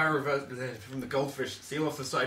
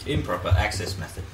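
tinny faraway voice; 5 semitones lower, 4 dB louder than usual. Acted. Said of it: "speaks in a tinny, faraway voice without turning on".

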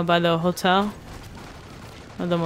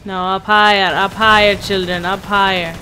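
mock stern teacher. Player lectures teammates like children, mock stern. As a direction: instruct them like a stern teacher.

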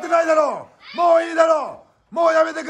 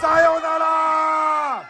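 drawn-out call; much slower than usual. Real, not acted. Calling the dramatic finish.

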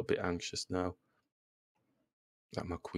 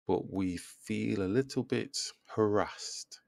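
whisper; slower than usual. Real, not acted. Muttering aside during chess game.

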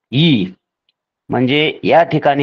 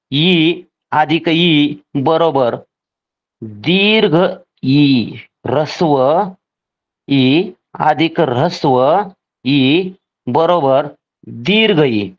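slow dictation; slower than usual. Shown as a demonstration. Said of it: "teacher spells out sandhi rule".

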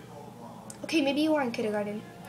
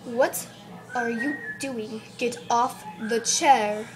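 lightly acted teacher scolding a pupil; a touch of stern British schoolteacher. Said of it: "act like a teacher".

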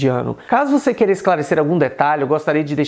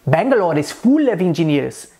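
"full" with a clear Indian L; Indian-accented English example sentence. Shown as a demonstration. Teacher demonstrating the L in Indian English, Indian accent. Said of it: "pronúncia da letra L no inglês indiano".

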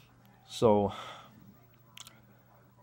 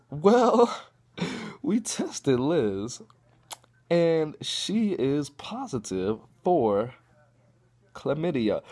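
slow mock nurse reveal; 6 semitones higher, 3 dB louder, much slower than usual. Nurse delivering news, slow.

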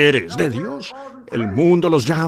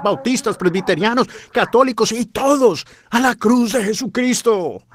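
raised, high-pitched fiery sermon; preaching at full force; 5 semitones higher than usual. Acted. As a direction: preach it out to the whole hall.

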